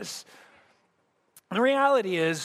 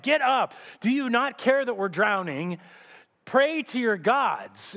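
shouted, higher, then a slow pleading push; urgent shout; 4 semitones higher than usual. Acted. Frightened sailors shouting at the sleeping Jonah, urgent.

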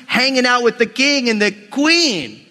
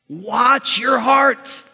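slow emphatic; much slower than usual. Real, not acted. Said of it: "You need to watch your heart".

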